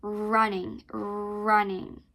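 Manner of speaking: Running with a long rolled r. Shown as a demonstration. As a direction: roll the r in Running. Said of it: "help you roll your tongue".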